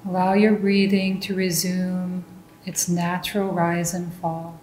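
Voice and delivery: ordinary delivery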